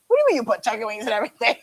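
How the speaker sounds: laughing disbelief. Real, not acted. Incredulous at comment, laughing.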